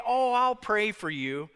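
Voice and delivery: light, passing assurance of prayer; casual promise. Acted. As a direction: toss off an easy promise you may forget. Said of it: "maybe sometimes we say".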